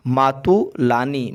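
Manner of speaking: मातुलानी drawn out slowly in parts; slow sounding-out. Shown as a demonstration. Teacher giving students the word for maternal aunt, slowly sounded out. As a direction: stretch मातुलानी carefully, syllable by syllable.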